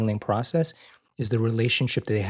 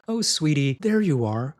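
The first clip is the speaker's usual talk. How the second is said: tender parent greeting; 4 semitones higher than usual. Retold or imitated. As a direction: greet a child lovingly.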